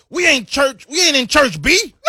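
high, loud mock scream. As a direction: yell it across the bar. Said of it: "Like, screamed it".

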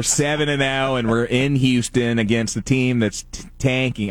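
put-on light Philly fan accent; playful Philadelphia accent, half-committed. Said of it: "put the accent on it".

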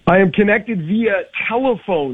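tinny, over a phone line; like talking down a phone; telephone voice. Real, not acted. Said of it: "if I sound like I'm on a telephone".

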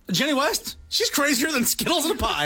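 high teasing voice; mock crazy voice. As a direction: squeal it out, mocking her. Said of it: "I'm like".

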